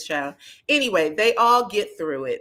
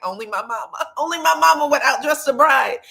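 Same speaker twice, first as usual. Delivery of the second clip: laughing son's remark; 7 semitones higher, 6 dB louder than usual. Retold or imitated. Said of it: "Diesel gives a look like".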